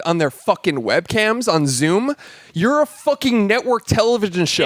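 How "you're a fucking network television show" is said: higher-pitched exasperated rant; worked-up rant. Real, not acted. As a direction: rail at them in disbelief. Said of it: "I am so mad".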